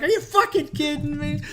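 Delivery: high, loud imitation of an incredulous parent; mock outrage. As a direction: act appalled while still cracking up. Retold outraged reaction to the joke.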